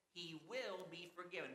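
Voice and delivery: "will" lifted and stressed, not a might. Real, not acted. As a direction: lean on "will" as a firm certainty. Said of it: "will" there is different than "might".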